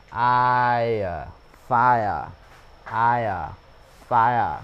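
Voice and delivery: "fire" with a full a-i glide into schwa; model I and fire. Shown as a demonstration. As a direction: say "fire" slowly for learners. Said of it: "Hoặc ở đây nha các bạn". (đọc mẫu "fire", lướt rõ a-i-ơ)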